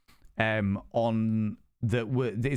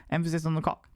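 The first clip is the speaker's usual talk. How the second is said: higher-pitched repeat ending on "cock"; emphasis on COCK; 4 semitones higher, faster than usual. Shown as a demonstration. Streamer repeating the running joke, higher stress on "cock". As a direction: lift the pitch and land on "cock".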